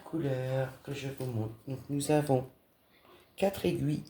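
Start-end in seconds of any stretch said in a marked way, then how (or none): 3.4-4.0 talking through hiccups. Real, not acted. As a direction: hiccup between the words. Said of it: "Excusez-moi, j'ai le hoquet". (avec le hoquet)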